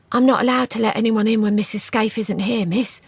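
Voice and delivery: lightly voiced nervous maid; a hint of a timid servant. A narrator's reading. Dodds refusing Juliet, lightly voiced and nervous.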